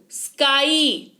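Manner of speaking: स्काई drawn out slowly, स्क clearly heard; slow clear pronunciation. Shown as a demonstration. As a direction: stretch स्काई so the स्क sound stands out. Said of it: "स्क सुनाई दिया". (स्काई धीरे से, साफ़ स्क)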